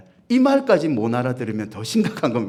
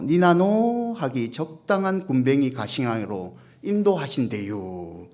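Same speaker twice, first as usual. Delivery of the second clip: Chungcheong dialect. Shown as a demonstration. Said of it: "충청도 사람들은 시편 이십삼 편을 이렇게 읽는데요".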